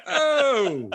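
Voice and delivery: loud, high, laughing "Oh!" of shock; mock Italian gasp. Mimicking every Italian hearing the news, a loud high gasp. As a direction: throw out a hammed-up Italian gasp.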